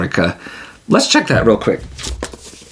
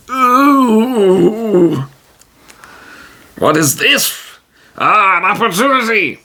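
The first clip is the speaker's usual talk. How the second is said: higher, thrilled at a chance; eager hero; 11 semitones higher, slower than usual. Acted. Tijim hearing groans from the hut, eagerly excited. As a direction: pounce on the opportunity, pitched up.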